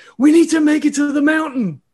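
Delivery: very high-pitched shouting. Voicing a character diving on a dragon: shouting over the wind. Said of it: "he's shouting, like, over the wind".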